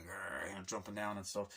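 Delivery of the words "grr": low, soft mock growl; imitated dog growl. Describing the film's dog, low imitated growl. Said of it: "shots of the dog, like".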